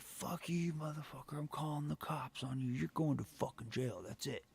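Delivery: high, whiny mock of the stepdad; stepdad's threat. Son mocking his stepdad's threat to call the cops, high whiny voice. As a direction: sneer like a beaten bully threatening the cops.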